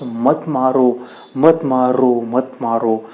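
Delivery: lightly voiced stone, low plea; pleading stone. Stone begs the bowing sculptor not to strike, pleading low.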